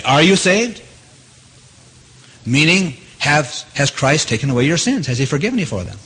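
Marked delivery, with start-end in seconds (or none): 0.0-0.8 lightly mocking question "Are you saved?"; mimicking an evangelist. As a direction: ask it like an eager preacher. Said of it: "They say it this way".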